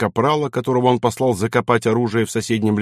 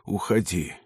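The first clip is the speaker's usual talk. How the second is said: much softer, low and strangled; choked whisper; 4 semitones lower, 7 dB quieter than usual. A narrator's reading. Baron clutching his heart, choked and soft, to his son. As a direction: barely get the word out. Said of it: "барон сдавленно прошептал".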